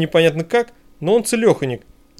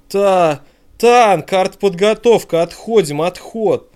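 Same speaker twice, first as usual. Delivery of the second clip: loud, high alarm shout, stumbling at first; urgent shout; 4 semitones higher, 4 dB louder, much slower than usual. Acted. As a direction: yell the retreat order over shelling. Shouting retreat under shelling.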